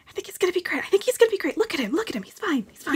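high, quick repeated reassurance; nervous reassurance. Acted. Player reassuring the party about the poet, high and tense. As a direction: talk yourself into believing it. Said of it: "whisper bickering".

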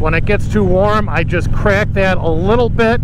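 talking inside a motorcycle helmet; speaking through wind noise while riding. Real, not acted. Riding the bike wearing the helmet.

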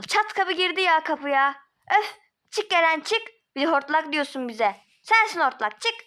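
angry. Acted. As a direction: order him out in a high, cross voice. (sinirli, tiz sesle kovma)

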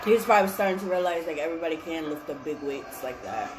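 talking while chewing; mouth full of food. Real, not acted. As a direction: fork held at lips. Seen 0: took bite at -4; fork and fingers held at lips throughout.

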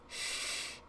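barely audible shush; hushing. Acted. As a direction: shush them without any voice. Girl hushes the man.

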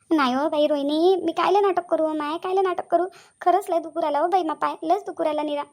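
hammed-up plaintive protest; feigned pain. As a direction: keep up the sore-leg act. Caught faker keeps claiming pain.

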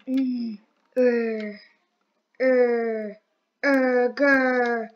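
drawn-out pushing grunts; straining growl. Pretend. Player pushing everyone, straining grunts.

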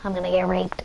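hushed whispered aside. Real, not acted. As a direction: whisper it as if off-mic. Joking aside after slip.

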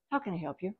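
just calm, give nothing. Shown as a demonstration. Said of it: "Just say".

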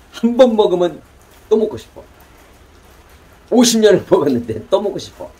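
put-on high-pitched old restaurant grandma; grandma's voice. Quoting the famous restaurant grandma's secret, high-pitched imitation. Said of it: "맛집 할머니가".

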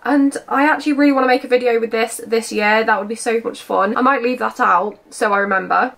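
slightly hoarse, croaky voice. Real, not acted. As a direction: talk through a croaky throat. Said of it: "my voice has got a bit croaky".

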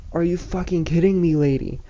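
loud, high outraged retort. Retold or imitated. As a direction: fire it back at her in disbelief. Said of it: "and I'm like".

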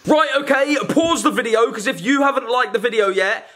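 shouted call to viewers. Real, not acted. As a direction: call out to the audience. Breaks skit to address viewers.

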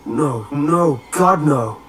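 understated narrated scream; desperate scream. A narrator's reading. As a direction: cry out in horror at being trapped. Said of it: "Jeremy screamed".

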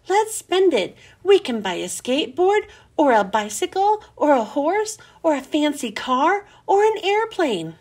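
lively read-aloud for kids, voicing each character a little; expressive children's book narration; storytime reading. A narrator's reading. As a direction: tell it like a bedtime story to a class. Reads a chapter to children.

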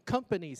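COMPANY stressed on COM; weight on the start of "company"; first-syllable stress. Shown as a demonstration. Teacher showing word stress, COM stressed in "company". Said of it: "是第一个重音".

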